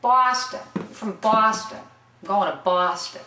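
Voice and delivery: BOSTON with a broad open ah, "Bah-stin"; local Boston pronunciation. Shown as a demonstration. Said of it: "you gotta say".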